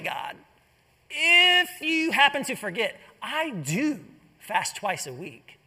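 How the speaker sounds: a lighter smug boast, slowing at the end; casual self-righteous bragging; smug aside. Acted. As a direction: remind God of your good deeds. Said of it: "he sees around and says".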